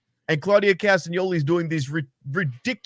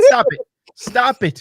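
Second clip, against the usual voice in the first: high, loud pleading protest; mock exasperation; 7 semitones higher, 6 dB louder than usual. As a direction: cry out in comic disbelief, pitched way up.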